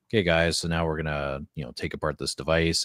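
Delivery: low, calm YouTube tutorial voice; laid-back tech explainer; chill tutorial voice. Shown as a demonstration. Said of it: "what I just sounded like in a video".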